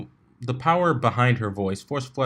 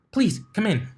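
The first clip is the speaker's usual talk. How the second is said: cheery invitation; 10 semitones higher than usual. Acted. Pinkie invites the applicant.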